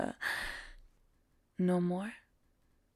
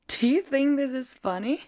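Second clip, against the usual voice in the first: higher, louder stern rebuke; stern loud scolding; 5 semitones higher, 6 dB louder than usual. Acted. Teacher scolding a giggling student, loud and stern. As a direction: snap at the student for laughing.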